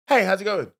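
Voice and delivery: toned-down winking hello; dialled-down flirty greeting. Shown as a demonstration. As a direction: greet casually with a restrained wink. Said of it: "let me dial it down".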